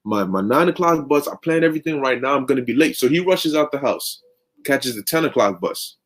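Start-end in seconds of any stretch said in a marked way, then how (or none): 0.0-3.0 mock-furious, pitched up then sinking; frustrated outburst. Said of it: "Jake is furious".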